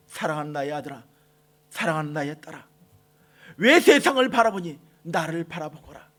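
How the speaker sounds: God gently calling his son and daughter; tender fatherly God. Acted. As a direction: speak to them as a loving father soothing a child. God tenderly addresses his children.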